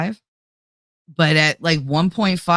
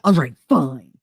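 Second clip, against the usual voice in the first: mock-petulant concession with a punched FINE; 4 semitones lower, 3 dB louder than usual. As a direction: imitate a sulky, grudging give-in. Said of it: "The petulant one".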